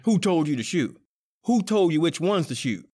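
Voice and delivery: angry rebuke. Acted. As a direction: round on a bungling partner. Gang quarrel over the shooting.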